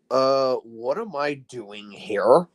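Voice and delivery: slow, puzzled engine voice; dub voice. Pretend. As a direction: drawl it out, lost and confused. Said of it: "It would be like".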